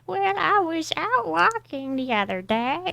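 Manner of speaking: put-on high, slow little old lady. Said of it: "I gotta practice my old lady voice first".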